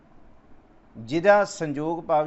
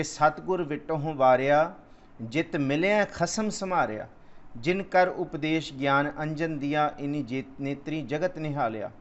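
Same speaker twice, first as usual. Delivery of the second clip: scripture recitation. Acted. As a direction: draw each word out like sacred text.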